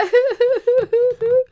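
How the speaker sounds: high, loud broken crying wail; loud wailing sob. Acted. Puppet collapsing in grief at the grave, loud wailing sob. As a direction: let out a howling sob. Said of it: "E piangendo diceva".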